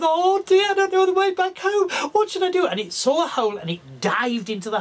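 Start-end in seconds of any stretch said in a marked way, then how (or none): 0.0-2.7 high, worried little voice, louder; frightened lamb. Acted. Lost lamb in the woods, worried and high. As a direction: panic at being lost.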